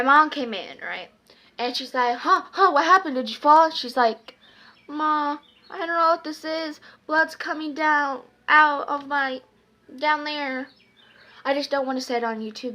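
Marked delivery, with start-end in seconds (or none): 2.2-3.7 higher, louder startled questioning; alarmed mom. Retold or imitated. Mom checking on her child after screams, mock alarm. 4.9-10.7 pretend freak-out. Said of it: "pretending to freak out".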